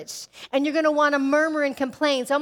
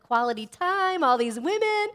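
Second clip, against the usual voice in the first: retold giddy delight, higher pitched; excited; 5 semitones higher than usual. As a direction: act out how thrilled you were. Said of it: "I was all excited".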